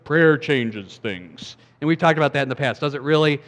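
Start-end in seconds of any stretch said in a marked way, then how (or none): 0.0-1.6 mock saying. Quoting a cross-stitched saying.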